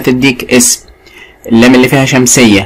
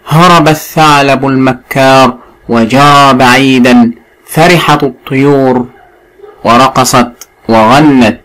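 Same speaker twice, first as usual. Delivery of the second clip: slow, careful classical Arabic reading; story reading; slower than usual. A narrator's reading. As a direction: read it out to a class, word by word. Reads the lesson story aloud. (قراءة قصة بفصحى متأنية)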